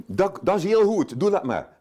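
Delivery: imitating delighted Zeelanders; pleased Zeelanders. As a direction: cheer it on like a happy local.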